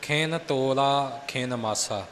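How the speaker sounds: slow demonstration, ਤੋਲਾ with long o, single l; teacher's unhurried reading with undoubled l in ਤੋਲਾ; correct pronunciation model. Shown as a demonstration. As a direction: model the phrase slowly, ਤੋਲਾ as "to-la". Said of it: "ਤੋਲਾ ਨਹੀਂ ਕਹਿਣਾ".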